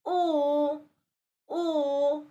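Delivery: "O" held long with slightly rounded lips; rounded O sound. Shown as a demonstration. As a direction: round the lips lightly and hold "O". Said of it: "slightly round your lips".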